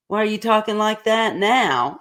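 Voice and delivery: laughing through the question; asking while laughing. Retold or imitated. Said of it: "And I was talking all nice".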